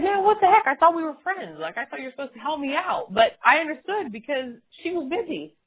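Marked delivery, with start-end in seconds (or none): 0.0-3.1 mock offended. Speaker retelling a friend's brush-off, mock offended. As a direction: play up fake betrayal. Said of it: "I was like".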